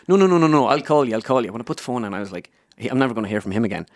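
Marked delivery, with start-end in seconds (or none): 0.1-1.5 Joe Brolly. Acted. Pundit putting off the caller, light impersonation. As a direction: start high, then ease down, hint of the pundit. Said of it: "He says".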